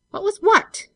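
high, loud startled demand; alarmed demand. A narrator's reading. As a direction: snap it out in alarm. Benson alarmed, springing up.

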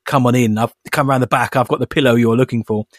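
lightly done smooth low-ish come-on voice; a hint of a suave detective inviting you in; Luther impression. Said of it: "I sound a bit like Luther".

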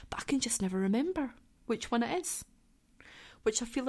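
sheepish unvoiced whisper; whispered confession. Real, not acted. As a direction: admit it under your breath.

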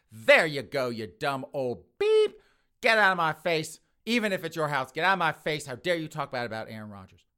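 loud mock-furious outburst; raging angry. Girlfriend attacking the boyfriend's mother, raging. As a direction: yell it in someone's face, hammed-up rage. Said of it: "she is just raging angry".

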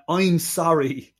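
put-on slow, stretched botched Southern accent; failed Southern accent. Podcaster quoting a line the actor couldn't say, failed Southern accent. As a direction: imitate an actor fumbling a Deep South accent. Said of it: "things he couldn't say in A Deep South Accent".

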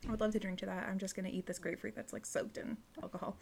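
quiet, chewing while talking; mouth full. Real, not acted. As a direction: talk round a bite of grapefruit. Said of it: "still munching away at this grapefruit".

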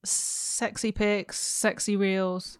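soft, very slow sexy purr; mock sultry. Co-host plugging the show's socials, mock sultry. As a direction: draw it out like a hammed-up seductress.

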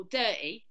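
"dirty" with the T almost gone; "dirty" as DUR-ee, London accent; dropped T. Shown as a demonstration. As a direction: say "dirty" London-style, barely any T. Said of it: "the T is almost not there at all".

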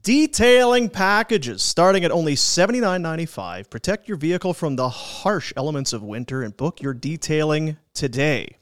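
bright host ad read; radio ad voice. Acted. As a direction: sell the sponsor in a smooth read. Reads sponsor ad.

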